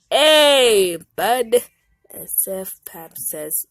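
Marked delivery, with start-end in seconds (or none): 0.1-1.6 sheepish greeting. Acted. Caught under the table.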